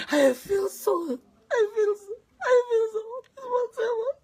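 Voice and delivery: searching for words through tears; tearful, rising. Real, not acted. Overwhelmed, struggling for words.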